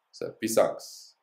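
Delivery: "pisangs" repeated slowly with the final s stressed; slow model repeat. Shown as a demonstration. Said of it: "We just add an S".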